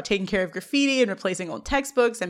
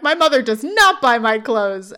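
louder, mildly indignant comeback; indignant retort; 5 dB louder than usual. Retold or imitated. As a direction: fire it back, punching the words. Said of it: "Meese fires back".

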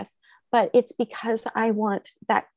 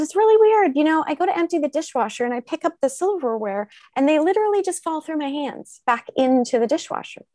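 animated retelling; 6 semitones higher, faster than usual. Retold or imitated. Retelling talk with doctor.

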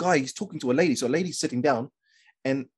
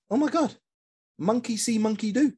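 inner thought; 8 semitones higher than usual. Retold or imitated. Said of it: "That's what I thought in my head".

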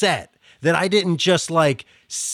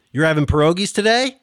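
quick Pittsburgh question lilt; Pittsburghese questioning inflection; 2 semitones higher, faster than usual. Shown as a demonstration. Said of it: "it's just that Pittsburghese of".

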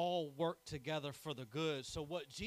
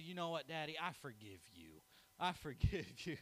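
put-on half-laughing child's forgive you; laughing through a little boy's forgiveness; son forgiving, laughing. Retelling his son, laughing through I forgive you. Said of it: "And he said".

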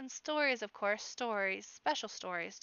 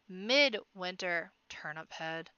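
slow, pointed correction; correcting; 2 semitones lower, 3 dB louder, much slower than usual. Acted. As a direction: correct him with a slow jab. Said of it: "corrects the bard".

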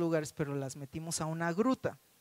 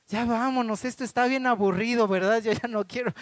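mock whiny kid, a bit higher and louder; a daughter carried by her dad, complaining; bored little girl; 3 semitones higher, 5 dB louder than usual. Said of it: "ella seguía diciendo".

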